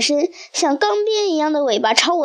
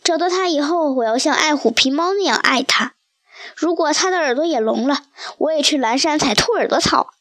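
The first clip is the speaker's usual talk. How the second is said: a lightly voiced leopard, tender and partly whispered. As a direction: promise it gently, as if to a lost love. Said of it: "公花豹深情地说".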